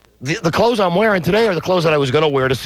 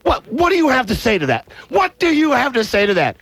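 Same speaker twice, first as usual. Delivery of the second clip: high, mock outraged demand; mock fury, pitched high at the silent club guy; retold angry demand; 11 semitones higher than usual. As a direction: push him for an answer, hammed-up anger. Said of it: "I got really pissed".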